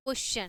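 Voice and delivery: क्वेश्चन pronounced "kwes-chan"; teacher's demo of क्वेश्चन with the "ch" sound. Shown as a demonstration. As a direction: say क्वेश्चन with a ch where the T is.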